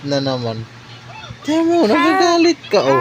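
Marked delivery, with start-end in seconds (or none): 1.4-3.0 high, playful "nagagalit ka". Real, not acted. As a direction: tease her in a high sing-song. Teasing baby in high voice.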